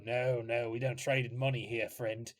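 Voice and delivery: lightly voiced sly trader kid; a hint of a smooth schemer; shady black market kid. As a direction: sell it like a shifty dealer. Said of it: "you hear the other kid go".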